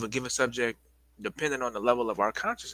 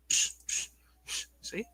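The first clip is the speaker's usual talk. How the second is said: breathless puffing; 5 dB quieter than usual. Real, not acted. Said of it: "let me catch my breath real quick".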